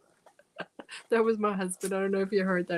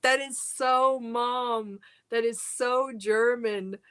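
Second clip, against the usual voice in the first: amused exclamation; 3 semitones higher, slower than usual. Retold or imitated. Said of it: "I was just like".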